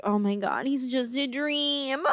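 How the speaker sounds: mock swoon with a long drawn-out dream. Imagined Marnie gushing over a charming guy, swooning. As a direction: gush as if smitten, slowing on the last word. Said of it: "being Marnie, we'd be like".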